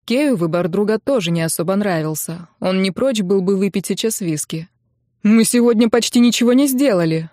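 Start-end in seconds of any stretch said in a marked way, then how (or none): 5.2-7.3 irritated snap, a bit louder; annoyed bandmate snapping about wasted day. Acted. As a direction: snap it back at the guys. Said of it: "огрызнулся Рен".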